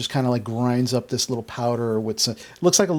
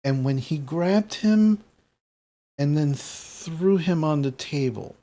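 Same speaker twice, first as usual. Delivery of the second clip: slow, deliberate questioning; lightly voiced Gram, weighing each phrase with pauses; probing grandmother; 3 semitones higher than usual. Game master plays questioning Gram.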